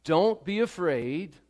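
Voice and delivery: slow, solemn words of Jesus; preacher voicing Jesus to the frightened father; tender Jesus. Comfort him slowly as Jesus. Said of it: "He says".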